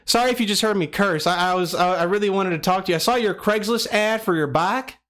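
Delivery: a friendly Southern caller, lightly done. Pretend. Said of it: "we'll go with the Southern voice today".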